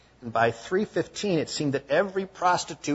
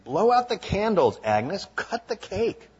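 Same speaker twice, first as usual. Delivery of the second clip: gruff order, higher and louder; 8 semitones higher, 6 dB louder than usual. Retold or imitated. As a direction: bark it at her, no patience. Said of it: "He said gruffily".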